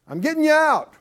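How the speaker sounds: high, loud, ringing promise from God; a hint of God speaking. God telling the enslaved Israelites he is freeing them, ringing.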